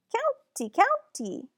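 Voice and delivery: high, emphatic "County, county"; insistent correction. Acted. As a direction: press the word "County" home, high and firm. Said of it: "I try to explain".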